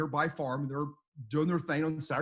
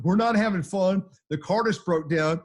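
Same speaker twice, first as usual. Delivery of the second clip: urgent; 4 semitones higher, 6 dB louder than usual. Retold or imitated. Urgent call during tornado.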